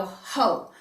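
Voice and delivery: one huffed whispered syllable. Shown as a demonstration. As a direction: breathe the sound out in a whisper. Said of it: "huff it out in a one syllable".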